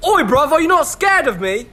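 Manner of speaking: put-on high, loud British accent ghost; a spooky ghost in a British accent.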